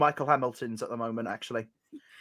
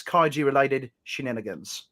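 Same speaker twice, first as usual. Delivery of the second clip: British voice sliding into Australian; lightly Australian-sounding put-on accent; Australian accent slip. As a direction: let an Australian accent creep in. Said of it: "that's Australian".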